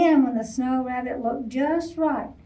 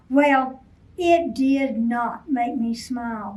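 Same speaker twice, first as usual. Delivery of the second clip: growled. Acted. Bear scolding Rabbit, growled. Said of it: "Bear growled".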